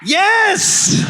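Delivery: high, loud, excited yes; enthusiastic yes. Pretend. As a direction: cheer it like total agreement. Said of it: "you went, "Exactly".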